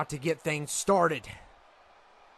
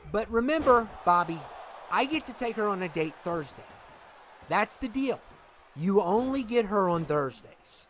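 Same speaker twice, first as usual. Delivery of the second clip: livelier, raised character voice; second brother, insistent; 4 semitones higher than usual. Acted. Brother to brother about sharing dates, insistent. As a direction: firmly remind your brother of the deal.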